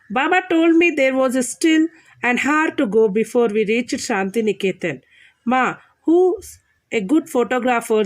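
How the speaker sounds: deliberate classroom reading in separated phrases; read-aloud lesson. Acted. Teacher reads travel lesson to children, measured read-aloud.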